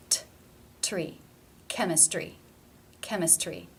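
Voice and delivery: CHEMISTRY with a true T before the R; real T. Shown as a demonstration. Teacher modelling a cluster, real T in CHEMISTRY. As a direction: release a clear T in TREE and CHEMISTRY. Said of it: "pronounced as a real T".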